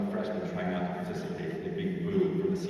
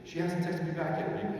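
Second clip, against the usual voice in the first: impatient complaint; 7 semitones higher than usual. Acted. Impatient person complains to Jesus.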